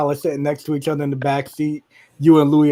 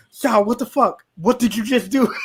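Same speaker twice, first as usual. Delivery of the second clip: raised-pitch mock indignation; retold angry outburst; 4 semitones higher than usual. Cheetah rounds on Sal in the car, mock anger. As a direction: confront him, mildly outraged. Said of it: "all fucking angry and shit".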